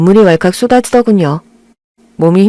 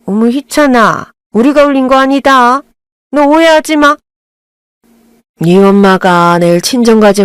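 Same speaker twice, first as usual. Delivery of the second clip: flustered aunt; 2 semitones higher than usual. Acted. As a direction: talk your way out of blame.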